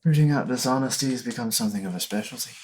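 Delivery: slipping into an Irish lilt; a character voice that drifts into Irish; accidental Irish accent. Acted. Game master voicing a schemer to players, accidental Irish accent. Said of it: "Why am I Irish now".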